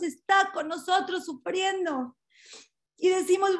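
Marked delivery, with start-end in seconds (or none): 0.0-2.2 slow, choking on tears; real tears slipping into the sermon; tearful. Real, not acted. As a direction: voice breaking as he speaks of suffering. Preacher describing God's suffering.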